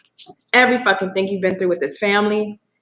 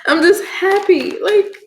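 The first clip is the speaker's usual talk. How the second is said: getting emotional; 5 semitones higher than usual. Real, not acted. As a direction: voice catching as tears come on. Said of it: "Don't get emotional".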